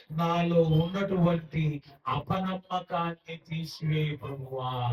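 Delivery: slow, drawn-out prayer falling away; stretched-out plea, sinking at the end; imitated tearful plea. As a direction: act out a father begging the Lord. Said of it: "ఎందుకు ఏడుస్తున్నాడు అండి".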